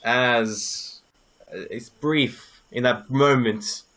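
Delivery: measured, slowed scene-setting narration; game master narration. Acted. Game master describing the glowing forest to the players, measured narration.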